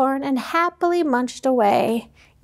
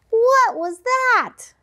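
surprised; 8 semitones higher, much slower than usual. Acted. Surprised ant.

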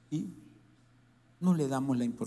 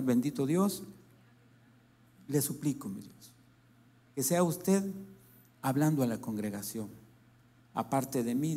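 prayer. Acted. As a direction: plead humbly with God. Leads a prayer.

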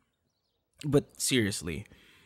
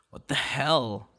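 whisper; 3 semitones higher, slower than usual. Acted. Mock outrage at the listener.

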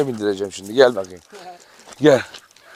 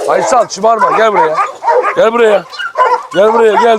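calling firmly; 4 semitones higher than usual. Real, not acted. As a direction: call him back with rising insistence. Calling the donkey away from dogs.

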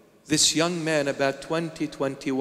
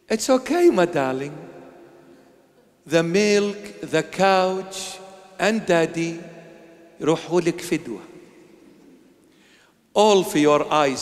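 gentle parent. Shown as a demonstration. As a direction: reassure the child tenderly.

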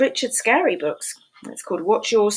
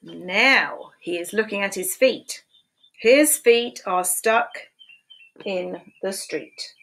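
slow read-aloud; slower than usual. A narrator's reading. Slow reading of story.

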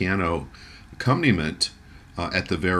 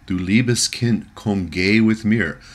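Elf King; 3 semitones higher, 4 dB louder than usual. Retold or imitated. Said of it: "we hear the voice of the Elf King".

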